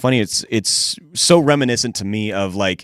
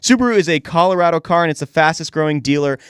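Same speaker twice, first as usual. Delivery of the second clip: upbeat, punchy sponsor read; radio ad read; 3 semitones higher than usual. Real, not acted. Host plugging the Subaru dealer sponsor, upbeat ad read. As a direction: sell it like a local radio sponsor spot.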